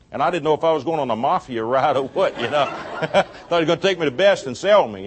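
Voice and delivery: chuckling through the words; laughing while telling. Real, not acted. Preacher to congregation, laughing through the story. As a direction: laugh as you tell the joke. Joking about a mafia ride.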